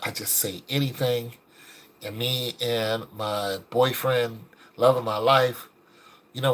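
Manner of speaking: understated sorrow, low and soft; retold tearful confession. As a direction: imitate her grief quietly, without sobbing. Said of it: "And she's crying".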